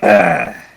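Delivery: loud grunt of exertion; effort grunt. Acted. Game master voices axe thrower, loud grunt.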